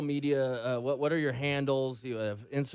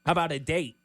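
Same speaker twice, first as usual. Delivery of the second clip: sleazy pickup line; 4 dB louder than usual. Pretend. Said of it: "throw you a cheesy pickup line".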